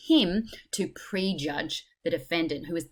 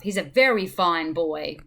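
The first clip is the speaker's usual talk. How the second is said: louder sarcastic mock praise; 5 dB louder than usual. Juror scorning the defendant's character, sarcastic. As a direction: praise him with pointed irony. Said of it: "sarcasm or, um, irony there".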